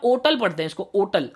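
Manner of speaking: ओटल said with a silent H, starting on the vowel; American pronunciation. Shown as a demonstration. Teacher shows students the American way, silent H. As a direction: say ओटल with no H sound at all. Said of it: "इसको अ से ऐसे denote".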